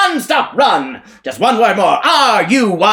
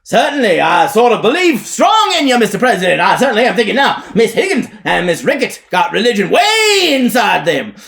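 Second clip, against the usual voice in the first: high, loud preacher hollering upward; shouting at top of voice; 11 semitones higher, 8 dB louder, faster than usual. Acted. Elijah shouts to the President above. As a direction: call out to the heavens at full voice. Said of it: "shouts at the top of his voice".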